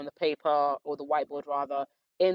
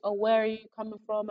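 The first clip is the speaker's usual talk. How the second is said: head of year; 6 semitones higher than usual. Retold or imitated. Head of year asks, high.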